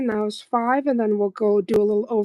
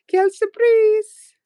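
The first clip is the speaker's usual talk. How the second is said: high, slow mock French; French accent; 11 semitones higher, 5 dB louder, slower than usual. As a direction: ham up the French phrase.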